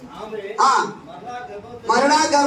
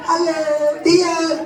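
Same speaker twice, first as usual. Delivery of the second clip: 1 mock husband greeting; 3 semitones higher than usual. Husband greeting wife on anniversary.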